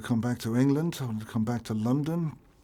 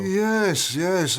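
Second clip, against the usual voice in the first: emphatic yes; 9 semitones higher, 8 dB louder than usual. Real, not acted. Eager emphatic agreement.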